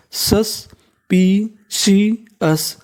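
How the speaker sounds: सस्पिशियस drawn out very slowly, final s held; very slow stretched word. Shown as a demonstration. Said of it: "एसयूएस का मतलब होता है सस". (सस्पिशियस बहुत धीरे खींचकर)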